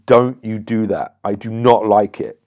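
low, firm and abrupt warning; intense firm tone. Shown as a demonstration. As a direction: set a hard boundary, no bargaining. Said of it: "I'm using a, a intense low tonality".

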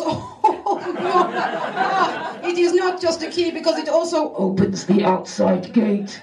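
mock fussy boss explaining; lightly voiced fussy boss. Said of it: "He goes".

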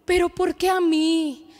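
mock dramatic little girl whining; a daughter in hospital whining dramatically to her mom; dramatic child. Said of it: "me decía así bien dramática".

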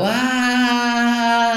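high loud cathartic "¡Ah!" scream; release scream. Shown as a demonstration. Coach showing the pillow scream to listeners, a loud high cry of release. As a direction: let out one big "¡Ah!" into the pillow. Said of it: "Y solo gritando".

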